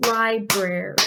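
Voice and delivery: "Library" broken into separate beats; syllable by syllable. Shown as a demonstration. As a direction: sound out "Library" one syllable at a time. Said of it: "Let's try it together".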